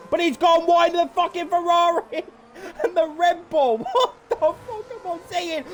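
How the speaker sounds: can barely get it out for laughing; real crying laughter mid-commentary; laughing through words. Real, not acted. Laughing hard at the chaos.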